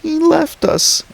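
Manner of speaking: put-on high, slow, steady wailing girl; monotonous wail. Little girl wails over and over that they were left, slow and high. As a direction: wail it the same way each time. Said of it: "in a steady, monotonous wail".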